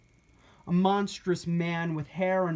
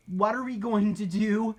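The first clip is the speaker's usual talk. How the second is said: higher, rushed worried question; panicked; 4 semitones higher, 4 dB louder than usual. Acted. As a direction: ask in a panic. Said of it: "Pancake panicked".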